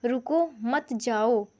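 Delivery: रुको, then a short break before मत जाओ; teacher's measured example of a comma; comma pause demo. Shown as a demonstration. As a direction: slowly set रुको apart from मत जाओ. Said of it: "बस यहाँ पे फ़र्क है कॉमा का".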